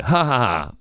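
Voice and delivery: fake, spelt-out laughing at someone; mock laugh. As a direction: pretend to laugh at him, deliberately unconvincing. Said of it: "Laughs at him".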